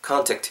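first syllable of contact as "kahn"; open-vowel contact. Shown as a demonstration. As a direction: say contact with "a", not "o". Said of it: "모음을 아 정도 가깝게 해서". ('아' 모음에 가까운 contact 발음)

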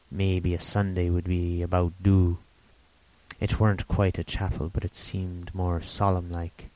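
lightly voiced rambling old sailor; a hint of an eager half-mad hermit; old castaway Ben Gunn.

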